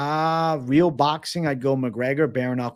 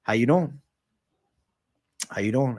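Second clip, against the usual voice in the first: Boston accent; 2 semitones lower than usual. Shown as a demonstration. Streamer obliges a viewer's request, in a Boston accent. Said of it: "with the Boston accent".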